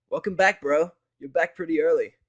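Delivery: bright pony friend calling out hello; Vinyl's voice. Acted. Vinyl greets narrator.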